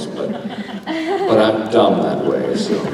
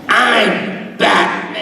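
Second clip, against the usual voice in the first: very slow, high strained Batman line; 13 semitones higher, much slower than usual. Pretend. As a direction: squeeze it out like Batman. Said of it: "I have to lie down to do this".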